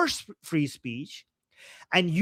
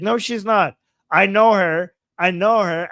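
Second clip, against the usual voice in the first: insistent; 6 dB louder than usual. Real, not acted. Defending the chat commenter.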